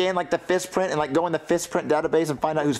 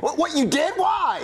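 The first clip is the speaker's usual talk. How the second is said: high, stammered astonishment; high incredulous questioning; shocked disbelief; 9 semitones higher, slower than usual. Acted. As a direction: react aghast, voice jumping up. Learns of a second punched kid.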